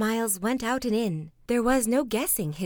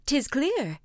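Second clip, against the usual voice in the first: crying out; 5 semitones higher than usual. Acted. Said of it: "cried they".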